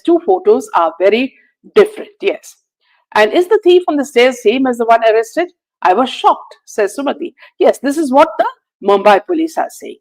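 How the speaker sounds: normal talking voice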